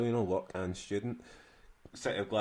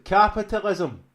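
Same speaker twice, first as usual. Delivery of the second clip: deadpan answer; 10 semitones higher, 11 dB louder, slower than usual. Retold or imitated. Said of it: "I was like".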